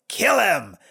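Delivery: sudden punched order with falling pitch; mock command. Priestess ordering her guards to kill him, mock command. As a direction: imitate a queen barking a kill order.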